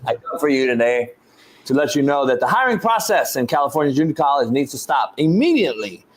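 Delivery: a lightly voiced preacher's plea, slowing down; mock prayer. Coach praying to baby Jesus about hiring, mock-solemn. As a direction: pray it like a half-joking sermon.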